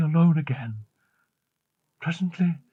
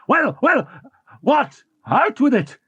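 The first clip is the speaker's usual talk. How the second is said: higher, impatient demand; fierce urging; 7 semitones higher than usual. A narrator's reading. Raoul pressing Christine to finish, fiercely impatient. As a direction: push her to say it. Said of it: "exclaimed Raoul fiercely".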